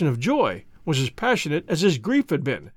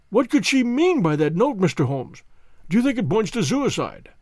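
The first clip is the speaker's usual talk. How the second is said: higher, pressing questions; anxious banker; 4 semitones higher than usual. Acted. Banker fears suicide, asks Holmes anxiously. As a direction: grasp at fear of the worst.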